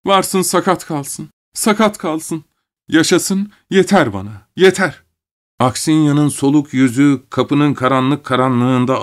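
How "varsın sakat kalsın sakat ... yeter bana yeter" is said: higher, desperate cries; shouting to heaven. A narrator's reading. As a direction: cry upward, begging. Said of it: "Yukarılara bakarak bağırıyordu". (göğe bağırarak yakarış)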